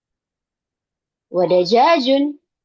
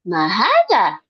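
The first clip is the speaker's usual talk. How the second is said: a louder startled "Ma hadha?"; surprised; 5 dB louder, slower than usual. Shown as a demonstration. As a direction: voice a small shock on "Ma hadha?". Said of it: "Karena kaget gitu".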